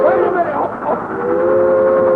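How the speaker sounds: very high, loud cry; loud high-pitched panic; terrified yell. Acted. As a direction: yell out as disaster hits. Train about to hit.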